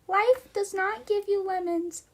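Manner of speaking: high, ringing proclamation; dramatic declaration. Acted. Streamer proclaiming to chat, high and dramatic. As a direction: declare it like a grand truth.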